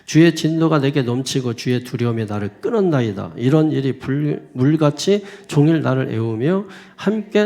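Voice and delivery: loud, measured psalm reading; scripture reading. Real, not acted. Pastor reading a psalm of suffering to the congregation, loud scripture reading. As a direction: read the lament out forcefully to the room.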